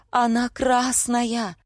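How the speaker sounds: high, slow wail; pained moan. A narrator's reading. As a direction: drag the words out miserably. Heroine still moaning about shirt.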